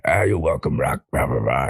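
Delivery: lightly voiced old trainer; trailing off into blahs, in character; Mickey. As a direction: do a loose movie-trainer impression. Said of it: "and Mick's like".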